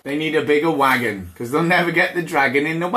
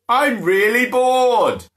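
bored roar; 5 semitones higher, 3 dB louder, slower than usual. Acted. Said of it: "Bushy roared".

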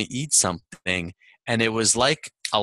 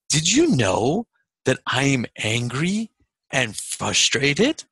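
slow, earnest question; retold wide-eyed slow announcement; earnest revelation; slower than usual. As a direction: break the news slowly, phrase by phrase.

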